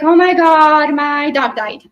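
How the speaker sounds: imitating a distraught friend calling about a dead dog; mock panicked friend. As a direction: play a friend panicking on the phone, hammed up. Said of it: "they're sobbing at the phone".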